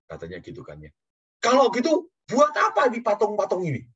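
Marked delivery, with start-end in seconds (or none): 1.4-3.8 loud, high rhetorical question; emphatic challenge. Retold or imitated. Imitating the new believer questioning his idols, emphatic challenge. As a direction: throw the question out high and forcefully.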